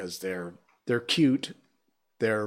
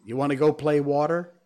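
Malaysian English question; 3 semitones higher, 4 dB louder than usual. Retold or imitated. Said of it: "they say".

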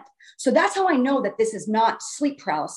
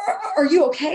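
higher, stammered mock concern; worried parents; 5 semitones higher, faster than usual. Parents checking on their limp child, worried.

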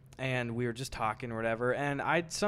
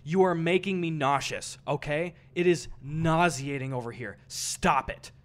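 mildly louder, imitating an offended stranger; his indignant tone; 4 dB louder than usual. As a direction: copy his prissy scolding. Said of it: "and this is his tone".

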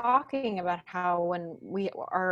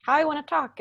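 pitched up, ungrounded talk; high head voice; 8 semitones higher, 4 dB louder than usual. Shown as a demonstration. Coach replaying how she talked when frustrated, high head voice. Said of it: "I was talking right like this".

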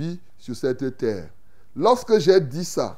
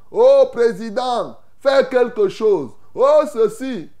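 raised, higher-pitched appeal to a leader; imploring; 5 semitones higher, 4 dB louder than usual. Acted. People turning to their president for help, imploring. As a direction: plead upward as a crowd would.

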